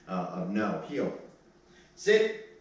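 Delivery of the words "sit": high, sharp sit; firm sit command. Real, not acted. Trainer to puppy on the leash, a high sharp sit. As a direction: bark the order at the dog.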